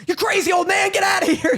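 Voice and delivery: high-pitched acted shout; mock yell. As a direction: yell like the boy warning off an old man. Acted yell at old man.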